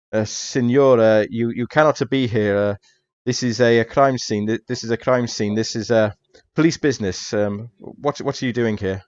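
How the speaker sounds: lightly voiced officious Italian policeman; a hint of an officious detective. Detective turning an intruder away from a crime scene, officious.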